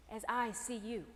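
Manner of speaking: tender. Acted. Tender closing plea.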